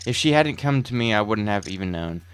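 brooding, theatrical storyteller voice; dramatic monologue narration. Acted. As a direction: narrate like a horror documentary.

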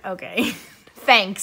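slow, amused okay with a laugh in it; laughing thanks. Retold or imitated. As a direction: laugh through a bemused thank-you. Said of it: "And I was like".

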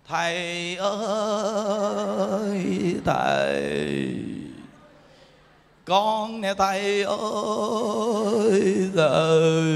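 slow, drawn-out moaning ghost call; ghostly wail. Acted. Dead soul wailing to the monk who performed its rites. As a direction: stretch each word like a lost spirit crying out in the night.

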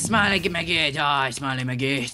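slow, drawn-out death wish; gleeful taunt. Pretend. Gamer gloats as his rival is in danger, slow taunting. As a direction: savor the taunt, stretching it out.

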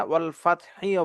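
"ফাতহিও" with an added i after the h; wrong vowel ending. Shown as a demonstration. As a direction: end "ফাতহিও" on a voiced hi. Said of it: "বলবো না".

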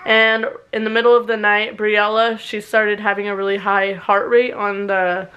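talking with a retainer in; slightly lisped retainer speech; wearing a retainer. Real, not acted. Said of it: "so I sound a little weird".

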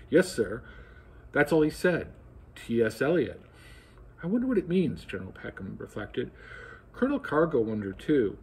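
lively read-aloud with voiced dialogue; animated book reading; story narration. A narrator's reading. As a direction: read the novel to an audience, bringing the officers to life. Reads novel passage aloud.

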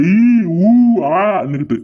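mock crying noises; mimicked bawling. Husband mocks wife's weeping, imitated wailing. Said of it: "என்னமோ பேசுறா".

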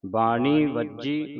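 ਵੱਜੀ said with a held double jj, slowly; ਬਾਣੀ ਵੱਜੀ, lean on the doubled jj; doubled consonant. Shown as a demonstration. Teacher shows the doubled sound in ਵੱਜੀ, slow. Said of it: "ਵੱਜੀ ਬੋਲਣਾ".

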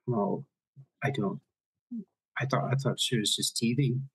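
put-on light Irish nanny accent; a hint of a brogue as the nanny. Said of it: "my terrible Irish accent".

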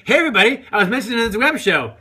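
high, loud imitation of a thrilled guy; mock excited announcement. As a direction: crow it out as a mock boast. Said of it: "He's like".

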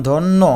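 ধন্য as "dhon-no"; final o vowel. Shown as a demonstration. Teacher showing o-kar ending, ধন্য as "dhon-no". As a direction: end ধন্য on a round o. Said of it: "ওকারের মতো হয়ে যায়".

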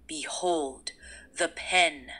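eerie horror narrator. Acted. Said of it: "Using a deep, eerie tone reminiscent of a horror movie narrator".

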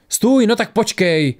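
high, drawn-out call; calling after someone. A narrator's reading. Torat calls after fleeing Tora, high and drawn out. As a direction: call out to stop someone running off. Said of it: "volal za ní Torat".

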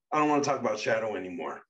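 loud, fast and curt; curt refusal. Acted. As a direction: shut the topic down fast. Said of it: "he stated".

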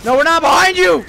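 frustrated yell. Real, not acted. Gamer yells at teammate.

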